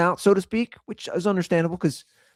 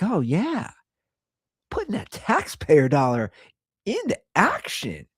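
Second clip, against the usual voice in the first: hammed-up excited cheer over a small win; 3 semitones higher than usual. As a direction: act out being thrilled, voice jumping up at the end. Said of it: "I was all excited".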